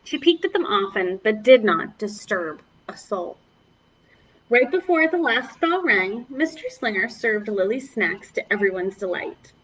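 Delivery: storybook read-aloud for little ones; story reading. Acted. Teacher reading a picture book to the class, storybook voice. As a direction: read it gently like story time.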